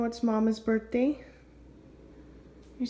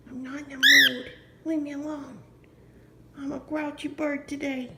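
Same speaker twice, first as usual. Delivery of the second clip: lightly voiced grumpy bird, a little higher; grouchy bird; 3 semitones higher than usual. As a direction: play the pet sulking, just a touch higher.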